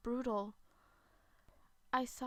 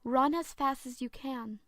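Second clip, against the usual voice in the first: urgent order; 6 dB louder than usual. Acted. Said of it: "then told me".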